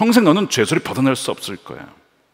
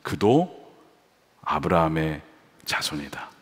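softer and lower, tender declaration; gentle Jesus; 8 semitones lower, 6 dB quieter, slower than usual. Retold or imitated. Jesus claiming Zacchaeus, quiet and tender. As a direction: speak it like a gracious word of welcome.

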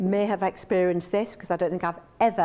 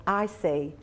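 coaxing partner; 3 semitones lower than usual. Retold or imitated. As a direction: charm her into dropping the makeup. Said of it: "And he goes".

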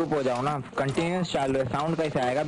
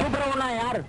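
exasperated plea; 9 semitones higher than usual. Real, not acted. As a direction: whine at noisy teammates, pitched up and slow. Wants chattering teammates quiet during round. (खीझकर ऊँची आवाज़ में)

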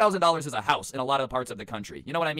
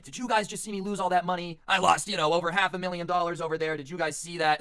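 mock stormy; 5 semitones higher than usual. Defeated gambler storming over to strangers, mildly angry and higher. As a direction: storm up and vent about the loss. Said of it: "kind of storming over to us".

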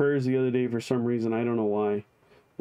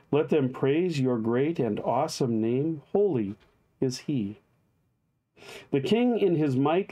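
psalm reading. Acted. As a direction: proclaim the psalm with reverence, unhurried. Reads psalm aloud.

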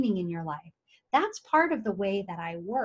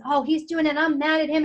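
higher and louder, acting out a peeved client; a touch of hammed-up anger; mock angry complaint; 6 semitones higher, 4 dB louder than usual. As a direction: play the grumbling client, mad at him. Voicing a client's angry thoughts.

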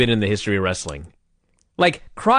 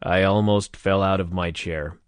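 lower, softer dead monotone; monotone retry; 5 semitones lower, 3 dB quieter than usual. Shown as a demonstration. Second try at Crockett's monotone after the host's teasing, lower and softer. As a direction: flatten it out like Crockett. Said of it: "Would you like me to try again?".

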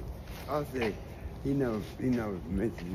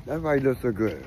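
repeated louder so she hears; 3 semitones higher, 4 dB louder than usual. Real, not acted. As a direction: say it again, up and clear.

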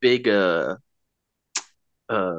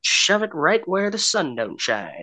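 high, loud hammed-up training-film voice; booming mock instructor from an old army film; old-timey film narrator; 6 semitones higher, 3 dB louder than usual. Mocking old training films for a friend, hammed-up announcer voice.

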